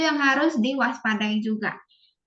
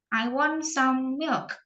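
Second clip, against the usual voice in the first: slow model sentence; slower than usual. Shown as a demonstration. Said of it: "Kayak misalnya".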